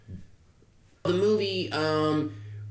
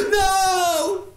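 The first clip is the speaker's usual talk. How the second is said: high laughing yell of no; mock scream; 7 dB louder than usual. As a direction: scream no while cracking up. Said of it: "You have to react".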